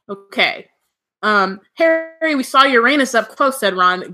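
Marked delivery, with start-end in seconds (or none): 1.7-3.6 high-pitched, lightly giggly narrated voice; feeble giggle. A narrator's reading. Ron telling Harry a Uranus joke, feebly giggly. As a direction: read it as a silly joke, pitched up. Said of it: "giggling feebly".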